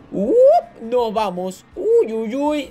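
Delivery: quick burst of alarm; startled whoop. Real, not acted. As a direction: let out a startled high yelp. Reacting to a near miss in game.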